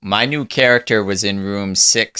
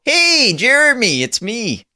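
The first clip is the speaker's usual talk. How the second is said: high, excited call to a son; delighted dad hailing his kid; slower than usual. Acted. Father calls out to his son.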